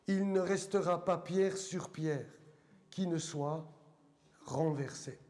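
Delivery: measured Bible reading with long pauses between phrases; deliberate, weighty reading aloud to a congregation; solemn scripture reading. Acted. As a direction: read it out phrase by phrase, letting each one land.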